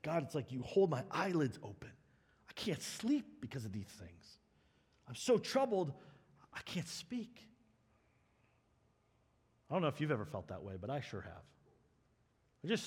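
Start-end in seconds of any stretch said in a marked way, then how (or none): 0.0-7.5 hushed anguish, dropping nearly to a whisper; troubled, weary. Retold or imitated. Preacher voices the sleepless psalmist before God, troubled and worn out. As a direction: imitate someone too troubled to get words out.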